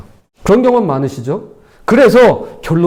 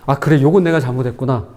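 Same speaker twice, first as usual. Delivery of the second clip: softer, lower, sincere admission; sincere partial admission; 7 semitones lower, 3 dB quieter than usual. Shown as a demonstration. Lecturer voicing a sincere partial apology to a spouse, softly. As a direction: own up gently to just one part. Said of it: "부분적으로만 인정하시면".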